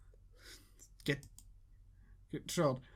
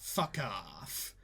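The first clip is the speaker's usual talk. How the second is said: Solid Snake voice; 12 semitones lower, 9 dB quieter than usual. Acted. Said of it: "I will take the snake voice".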